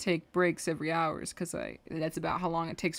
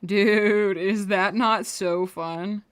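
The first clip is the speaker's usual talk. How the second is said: louder, drawn-out and slow; excited; 2 semitones higher, 8 dB louder, much slower than usual. Real, not acted. Artist thrilled at her animation playback, excited. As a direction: stretch it out, delighted.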